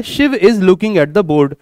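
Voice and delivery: slow, careful English sentence; slow example sentence. Shown as a demonstration. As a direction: read it slowly for students. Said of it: "मैंने एक वाक्य बोला है".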